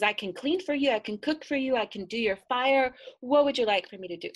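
put-on young girl rushing to please; girl eagerly listing chores, fast at the end. Girl offers her services.

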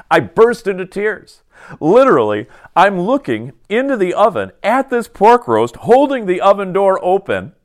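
high, strained account of bursting into tears; emotional retelling. Retold or imitated. Pastor recalling his sobbing at the oven, emotional retelling. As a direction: voice climbs high, slowing and softening toward the end. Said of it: "I'm getting kind of emotional".

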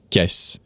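"qu'est-ce" cut short, without the final que; one quick syllable, "qu'est-ce", ending on the s; shortened form. Shown as a demonstration. Teacher showing the easier casual form, shortened. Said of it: "instead of saying".

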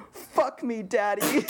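high, put-on childish plea; imitating a child. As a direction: retell the kid voice from the bit. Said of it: "impersonating a child talking to his father".

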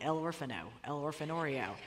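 put-on fumbling tourist guesses in a hammy Spanish accent; mock Spanish accent. Asking a Mexican cab driver for an orphanage, in a mock Spanish accent. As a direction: try out the word in a put-on Spanish accent, groping for it. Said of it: "I just said the word orphan with a Spanish accent".

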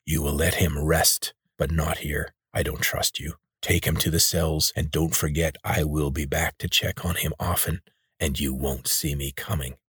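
raspy voice. Acted. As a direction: rasp out a calm threat. Rakash leader warns.

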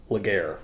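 Laguerre said to rhyme with "air"; outsiders' mispronunciation. Shown as a demonstration. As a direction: say Laguerre as outsiders do, ending in "-gair". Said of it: "colloquially known, uh, by outsiders as".

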